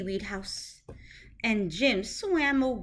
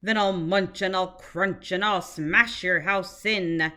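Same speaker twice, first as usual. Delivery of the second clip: lower, louder menacing shark voice; shark roar; 4 semitones lower, 4 dB louder than usual. Acted. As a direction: growl it like a hungry bully shark. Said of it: "roared the shark".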